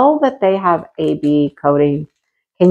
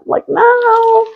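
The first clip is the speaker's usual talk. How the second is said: 1 mock refusal.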